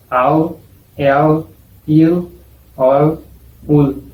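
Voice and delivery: au el il ol ul with a dark, slightly different L. Shown as a demonstration. Teacher demonstrating the regional final L sound. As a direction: let the L in au el il ol ul go dark. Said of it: "se va a decir".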